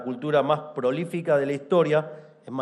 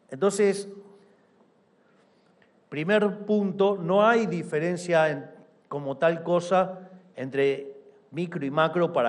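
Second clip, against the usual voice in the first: booming balcony speech; 5 semitones higher than usual. Real, not acted. Emphatic point in speech.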